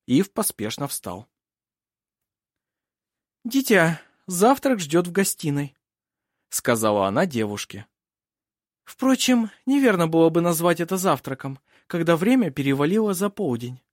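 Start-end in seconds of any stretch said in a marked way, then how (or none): 3.4-5.7 high-pitched, projected matron of the house; high, authoritative aristocratic lady; commanding princess. Acted. Voices the princess. 8.8-13.8 high-pitched, projected matron of the house; high, authoritative aristocratic lady; commanding princess. Acted. Voices the princess.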